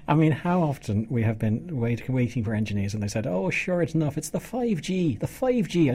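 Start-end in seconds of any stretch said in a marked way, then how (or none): 3.3-5.9 light mock Irish accent, a touch higher; tossing off a playful Irish lilt. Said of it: "I don't know why I'm putting an Irish accent on there".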